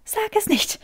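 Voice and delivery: high, gasping plea through suppressed laughter; gasped out. A narrator's reading. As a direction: gasp it out, barely holding back the giggles. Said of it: "keuchte Granger".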